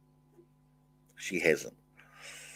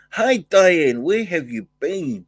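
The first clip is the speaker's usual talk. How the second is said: higher, louder delighted hello; excited greeting; 7 semitones higher, 6 dB louder, slower than usual. Real, not acted. Greets his moderator.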